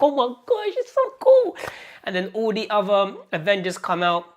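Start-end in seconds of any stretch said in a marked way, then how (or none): 0.0-1.6 much higher, louder excited squeal. Retold or imitated. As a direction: squeal with delight over the scene. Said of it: "I'm like".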